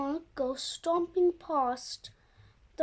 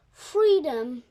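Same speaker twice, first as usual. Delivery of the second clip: joyful shout; 7 dB louder than usual. Acted. Escaping the tunnel at last.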